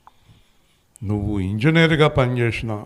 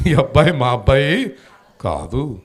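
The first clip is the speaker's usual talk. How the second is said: said again with more voice, "అబ్బాయి" lifted; louder repeat; 2 semitones higher than usual. Shown as a demonstration. Preacher urging congregation, repeating "మా అబ్బాయి కాదు" louder. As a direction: stronger take of the same line. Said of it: "గట్టిగా చెప్పండి".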